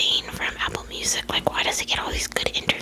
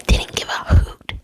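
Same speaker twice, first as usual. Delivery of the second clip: sharp, much higher whispered punchline; punchy whisper; 11 dB louder than usual. Shown as a demonstration. Reading the book aloud to viewers, punchy whispered punchline. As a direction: land the punchline with a jolt. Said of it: "This is a book, bitch".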